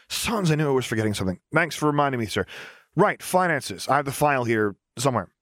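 put-on cheerful young engineer. Lars cheerfully answers Ozzel.

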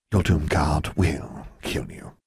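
slow, menacing snake-woman threat. Acted. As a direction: draw out the threat coldly. Snake-woman delivers final threat.

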